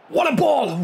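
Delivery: sudden high burst of delight at a pass; excited cry. Real, not acted. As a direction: cry out at the perfect ball. Reacting to a great pass live.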